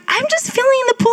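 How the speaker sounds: high, fast, breezy mock husband; lazy husband impression. Wife mocking husband's pool plans, high breezy voice. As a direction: toss it off like a lounging guy. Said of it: "He's like".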